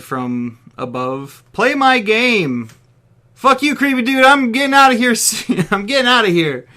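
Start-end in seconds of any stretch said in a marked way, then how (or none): 1.5-2.7 loud, high, slow demand; drawn-out taunting command from above; booming whiny villain. Acted. Game master taunting trapped Balak, loud and slow. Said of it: "a booming, whiny voice said". 3.3-6.7 angry yell. Acted. Balak yelling at captor.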